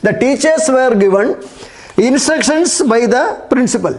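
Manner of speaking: very slow, word by word; slow dictation. Shown as a demonstration. Teacher giving pupils the full answer sentence, slow dictation. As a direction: lay each word out slowly for copying. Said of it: "ഇത്രയും അറിയാമെങ്കിൽ".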